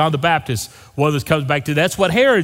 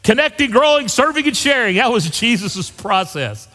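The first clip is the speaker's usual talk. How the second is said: eager exclamation; 6 semitones higher than usual. Retold or imitated. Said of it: "I wanted to stand up and say".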